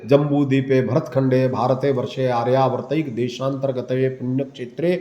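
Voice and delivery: Sanskrit ritual formula, recited evenly; Sankalp recitation. Shown as a demonstration. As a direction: demonstrate a priest's sankalp recitation. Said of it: "संकल्प आदि में बोला जाता है".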